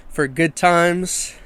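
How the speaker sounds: slow, punchy sponsor read. Real, not acted. Host reading a bar sponsor to listeners, slow ad read. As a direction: pitch the bar one measured phrase at a time. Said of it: "first ad read here".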